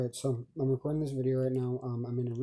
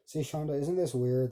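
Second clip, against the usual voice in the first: sighed breathy aside; 2 semitones higher than usual. Real, not acted. Sighing aside to Shonda.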